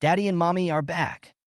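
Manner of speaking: put-on high, eager little kid call; excited child. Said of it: "waved her hands excitedly".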